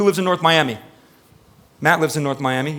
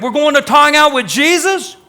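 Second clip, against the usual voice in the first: higher, louder excited exclamation; eager David; 11 semitones higher, 7 dB louder than usual. Retold or imitated. David glad to go to worship, excited exclamation. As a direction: burst out with joy at going to God's house. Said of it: "David's like".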